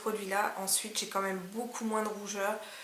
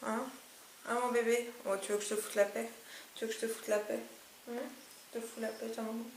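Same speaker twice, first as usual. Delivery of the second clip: whispering over a crib; 7 dB quieter, faster than usual. Real, not acted. Baby talk to sleeping dog.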